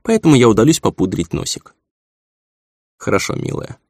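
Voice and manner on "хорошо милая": softly spoken, almost whispered; soft and gentle. A narrator's reading. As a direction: say it gently with a smile. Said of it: "мягко улыбнулся я".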